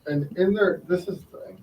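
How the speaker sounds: thin voice no bass, tinny; tin can voice. Real, not acted. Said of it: "You sound like you're in a, a tin can".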